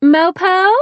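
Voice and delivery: high, loud, sugary call; sweetest voice. A narrator's reading. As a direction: sweet-talk him into helping. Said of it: "I called in my sweetest voice".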